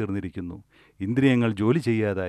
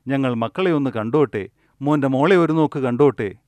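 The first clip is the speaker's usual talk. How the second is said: acted pleading; 3 semitones higher, 3 dB louder than usual. Old people begging the doctor for life, mildly frantic pleading. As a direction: plead for more time, lightly acted.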